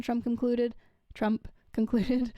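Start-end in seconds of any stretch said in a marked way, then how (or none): 1.1-2.3 slow, laughing through the words; reading slowly while giggling. Real, not acted. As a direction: crack up mid-sentence.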